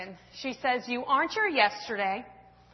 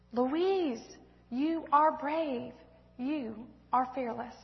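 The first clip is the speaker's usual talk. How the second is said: tender praise; 5 dB quieter, slower than usual. Acted.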